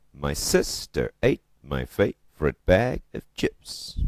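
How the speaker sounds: slow, loud beat on "SIS", "ATE", "FAVE", "BAG", "CHIPS"; iambic stress. Shown as a demonstration. Teacher demonstrating iambic pentameter, slow pounded beat on "SIS", "ATE", "FAVE", "BAG", "CHIPS". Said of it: "look at where the accent lies".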